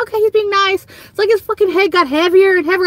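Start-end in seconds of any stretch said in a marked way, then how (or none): 0.0-0.8 pleased inner voice. Retold or imitated. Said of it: "I was like".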